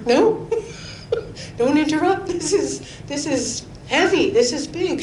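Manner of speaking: half-laughing don't interrupt; laughing shush. Retold or imitated. Telling friends not to interrupt, laughing.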